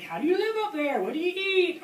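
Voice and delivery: high, lilting questions; curious questioners. Retold or imitated. Men asking the tree sitter about her life, high curious voice.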